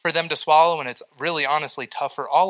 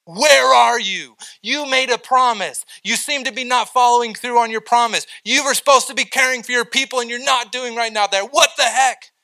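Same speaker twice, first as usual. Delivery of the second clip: psalmist yelling at God; 6 semitones higher than usual. Retold or imitated. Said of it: "the psalmist is just yelling at God".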